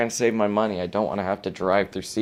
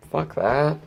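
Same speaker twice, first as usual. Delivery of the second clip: angry dismissal; 7 semitones higher, 4 dB louder than usual. Real, not acted. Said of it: "angry rejection".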